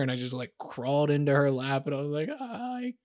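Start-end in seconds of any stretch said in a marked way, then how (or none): 2.3-2.9 mock-tearful wail on the opening words; retold crying. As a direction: retell a tearful collapse, lightly acted. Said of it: "I just started crying".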